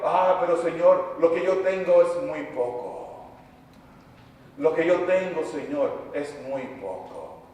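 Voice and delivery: mildly dejected plea to the Lord; a touch of discouragement, acted; discouraged plea. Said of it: "nos llenamos de desánimo".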